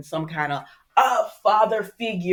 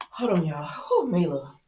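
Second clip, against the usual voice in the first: breathy unvoiced pause request; whispered aside. Real, not acted. Vlogger pausing for her child, whispered aside. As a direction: whisper it to the viewers.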